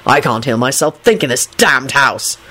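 slow, emphatic angry order dropping low; cross father, restrained in volume; furious yell. A narrator's reading. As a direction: order it angrily, leaning on each word. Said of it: "Quentin yelled furiously".

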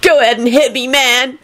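high-pitched mock wail; mild wail. A narrator's reading. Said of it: "Kenny wailed".

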